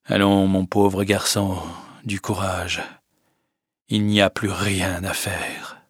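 slow, soft and consoling; gentle sad news. Acted. The doctor telling Charles nothing can be done, slow and soft. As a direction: break it to him gently.

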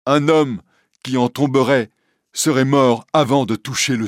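a lightly voiced Quasimodo reassuring Esmeralda; gentle hunchback. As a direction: soothe her like a shy giant. Quasimodo's devoted speech.

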